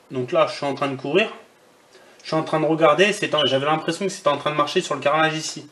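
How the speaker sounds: talking while running; speaking mid-jog, a little breathless. Real, not acted. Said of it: "franchement, je vais courir".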